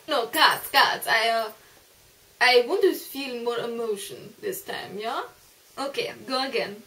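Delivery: loud director calling cut; bossy director stopping the take; film director. Pretend.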